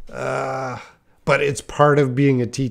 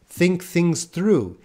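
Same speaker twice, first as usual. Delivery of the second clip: put-on like a parent chiding a soaked child; scolding; 3 semitones higher than usual. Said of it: "So I might say".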